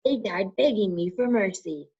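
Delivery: high, hissing dark lord voice; menacing evil lord, high and cold; Voldemort's voice. A narrator's reading. Voldemort tempting Harry to hand over the stone, high and cold.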